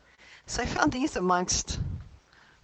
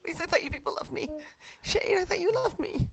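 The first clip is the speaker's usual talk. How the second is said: high, hammed-up pleading no; mock despair, begging them to stop; anguished denial; 9 semitones higher, 5 dB louder than usual.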